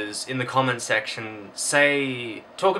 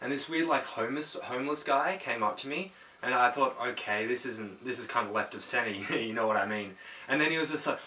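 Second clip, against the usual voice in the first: softer, rambling chatterer who won't stop talking; one-sided rambler; 4 dB quieter than usual. Acted. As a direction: drone on quietly like a clueless oversharer. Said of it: "they tend to look a lot like this".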